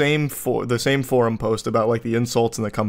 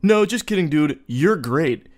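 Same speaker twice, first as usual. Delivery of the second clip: mock playful; 3 semitones higher than usual. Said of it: "playful smile, loosen up".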